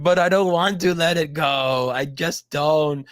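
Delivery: slow, drawn-out pouty refusal; mock whining. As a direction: whine like a sulking child. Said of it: "And he's like".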